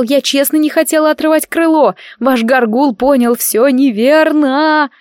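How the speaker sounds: put-on sobbing girl excusing herself to the king; tearful pleading. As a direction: plead through tears. Sobbing girl explains the accident.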